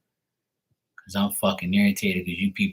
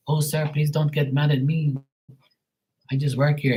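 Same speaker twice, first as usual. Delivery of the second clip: lightly mimicked apologetic employee, pitched higher; mock pleading agent; 5 semitones higher than usual. Agent pleads with an angry customer, mock apologetic. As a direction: put on a pleading customer-service plea.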